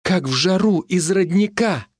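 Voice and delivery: high, slowed, thrilled quote; excited recollection. A narrator's reading. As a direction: recall grandpa's words with rising excitement. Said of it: "Дед бабке так же говорил".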